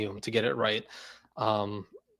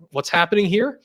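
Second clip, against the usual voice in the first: high, loud mock Sledge voice; a loud, hammed-up take on Sledge; Sledge impression; 7 semitones higher, 6 dB louder than usual. Doing Sledge for the stream, hammed-up and loud.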